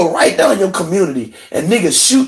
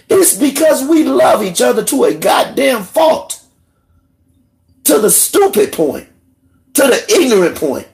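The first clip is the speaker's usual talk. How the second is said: raised, higher shout; hollering; 6 semitones higher than usual. Real, not acted. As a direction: holler it out in anger. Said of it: "hear me hollering and fussing".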